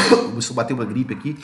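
coughs, then rushes on hoarsely; coughing fit. Real, not acted. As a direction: sore throat, coughing. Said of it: "minha garganta, ela tá meio". (tossindo com a garganta irritada)

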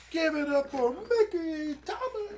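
high, loud, slow talk-show host intro; Oprah. Pretend. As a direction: announce the guest like a TV host. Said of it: "now I sound like Oprah".

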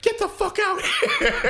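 high, slow mock Vegeta growl laughing through it; hammed-up high imitation of an angry Vegeta. Friend retelling Vegeta's line to podcast buddies, high mock snarl.

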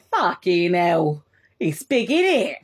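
slow, awed Cockney geezer; mock his wonder at New York; imitating Nick. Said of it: "He was like".

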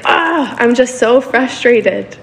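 a touch of mock exasperation, drawn out; exasperated sigh, slow. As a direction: groan it out like you're fed up. Voicing a frustrated believer.

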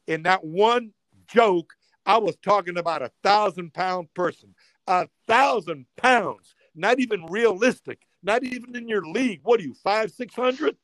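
snapping back. Retold or imitated. Comedian snapping at the heckling woman, heated retort. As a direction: finally lose patience and hit back. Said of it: "I snapped".

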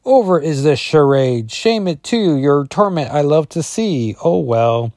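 high, backwards-talking villain taunt. Acted. Comic villain gloating at the trapped heroine. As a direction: sneer it out like a gloating monster. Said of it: "Colossus says".

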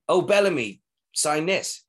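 brash shout for an autograph; cocky. Retold or imitated. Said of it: "being cocky".

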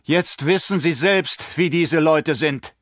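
horrified, gasping. Acted. Baron insists to the emperor, gasping in horror. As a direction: push the words out in fright. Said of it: "keuchte der Baron entsetzt".

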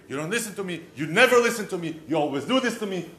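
angry wife. Retold or imitated. Wife angrily scolding her husband, loud mock complaint. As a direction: scold him for never listening. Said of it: "and now she's angry".

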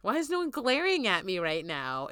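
loud, laughing incredulous questions; can't believe nobody is mad; laughing disbelief. Retold or imitated. Incredulous retold reaction, laugh heard.

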